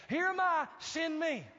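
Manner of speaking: volunteer without a shred of doubt; confident. Acted. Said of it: "Why such confidence?".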